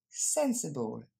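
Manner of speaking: "Sensible" in English, SEN stressed, then "suh-bull"; English model pronunciation. Shown as a demonstration. Teacher demonstrates for French learners, English "Sensible", first syllable stressed. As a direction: model "Sensible" carefully with a falling tune. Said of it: "On regarde sa prononciation".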